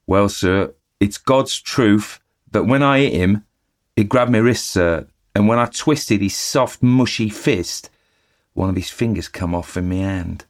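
chatty eager bellboy reporting the news; Cockney bellboy. Acted. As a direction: Thomas the bellboy gossiping to his master. Thomas tells the horror.

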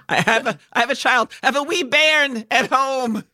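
a high, hammed-up Scottish lilt; playing a laid-back dad with a put-on Scottish accent; mock Scottish accent. Jokes about being a dad in a mock Scottish accent. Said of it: "Is that Scottish?".

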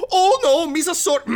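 very high, loud Gungan wail; cringing Gungan accent. Acted. Chef slipping into Gungan tongue, cringing high Gungan squeal. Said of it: "he cringes and he's like".

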